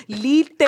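"Literally" spoken syllable by syllable, carefully; every syllable spoken. Retold or imitated. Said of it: "like somebody who doesn't speak English".

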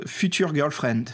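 put-on "Future Girlfriend" said slowly with a French accent, "fytyʀ" with a French u and r; "Future Girlfriend" with a heavy French accent, slow. Shown as a demonstration. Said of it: "avec mon accent français".

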